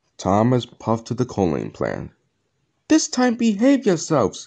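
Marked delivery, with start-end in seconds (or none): 2.9-4.5 sharp, very high, scolding snap. Thomas speaks to his freight cars at the coaling plant, snapping. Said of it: "Thomas snapped".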